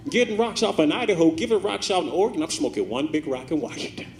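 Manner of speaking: high, strange street hustler voice; crackhead voice. Pretend. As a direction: voice a crackhead on FaceTime. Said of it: "That's my crackhead voice".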